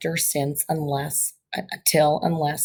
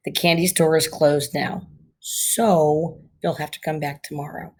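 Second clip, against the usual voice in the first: a clear pause after "closed now" before "so you'll have to"; pause at the comma. Shown as a demonstration. Teacher showing students where the comma pause falls. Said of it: "notice that pause between those two sentences".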